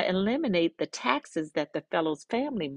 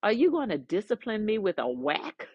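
insulted giant; 2 semitones higher than usual. Retold or imitated. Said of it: "now he's insulted".

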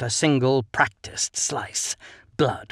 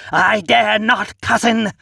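shouted refusal; 9 semitones higher, 6 dB louder than usual. A narrator's reading. Brawl, shouted exchange.

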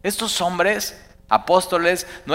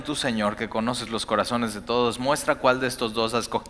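soft prayer; 3 semitones lower, 5 dB quieter than usual. Shown as a demonstration. Rereading the apostles' prayer.

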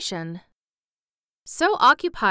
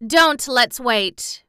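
eager; 4 semitones higher, 5 dB louder, much slower than usual. Acted. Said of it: "returned Dorothy".

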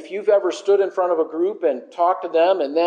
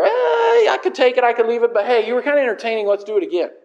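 offhand, mildly bored mock voice; laissez-faire shrug; 4 semitones higher, 3 dB louder, much faster than usual. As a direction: shrug it off lazily. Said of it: "kind of laissez-faire".

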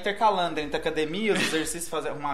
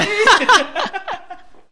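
high, loud burst of laughter; cracking up at the memory; 13 semitones higher, 7 dB louder than usual. Real, not acted. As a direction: laugh out loud at your own story. Laughing at own retold joke.

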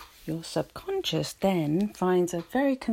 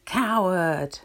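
loud echo of an angry call; louder, drawn-out answering cry; echoed insult; 5 dB louder than usual. A narrator's reading. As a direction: ring the word back from the mountain. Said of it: "He receives the answer".

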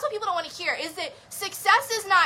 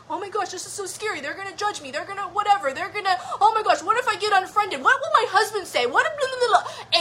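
anxious inner critic; 3 semitones higher than usual. Retold or imitated. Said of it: "my inner voice is saying".

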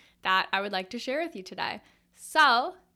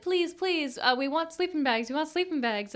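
put-on higher, pleading kid voice; begging; 5 semitones higher than usual. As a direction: beg dad like a little kid. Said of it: "we begged our dad".

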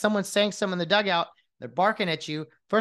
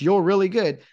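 louder mock compliment; sarcastic; 6 dB louder than usual. Shown as a demonstration. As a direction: fake praise aimed at the umpire. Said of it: "and you say it sarcastically".

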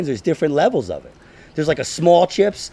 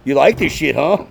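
heckling; 6 dB louder than usual. Retold or imitated. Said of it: "heckled me".

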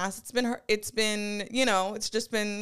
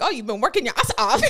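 quick, laughing through the words; giggling while quoting; laughing quote; 5 dB louder, much faster than usual. Retold or imitated. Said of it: "it's like".

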